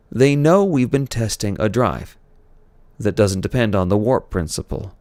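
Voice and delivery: rally the crew with authority; commanding captain. Acted. Kirk addressing crew.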